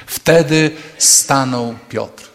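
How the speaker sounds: very slow, weighty scripture read; solemn reading. Shown as a demonstration. Preacher reading scripture to congregation, slow and solemn. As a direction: savour each word slowly. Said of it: "nie mogę się tego naczytać".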